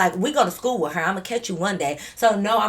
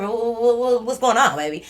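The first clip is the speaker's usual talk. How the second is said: tripping over the ooh, flustered stammer; stuttering; 2 semitones higher, 3 dB louder than usual. Retold or imitated. Narrator stammering at Carmen while forcing herself calm, flustered stutter. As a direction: stammer the ooh, pushing the words out. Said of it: "I get stuttering".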